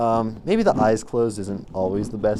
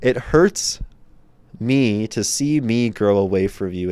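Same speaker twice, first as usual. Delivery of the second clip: louder replay; 5 dB louder than usual. Shown as a demonstration. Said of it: "Oh, fucking crazy, that one".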